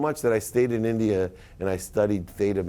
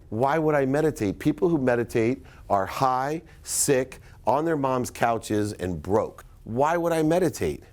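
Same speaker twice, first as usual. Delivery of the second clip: arrogant scoffing; 2 semitones higher than usual. Retold or imitated. His old arrogant self scoffing at the woman on the plane, pitched up and incredulous. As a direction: sneer at the idea like a smug millionaire.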